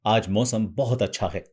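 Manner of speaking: slightly heavier, weightier take on the line. Shown as a demonstration. Voice coach demonstrating the line in a slightly heavier tone. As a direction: lean the line a little heavier. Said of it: "अब इसे भारी करेंगे".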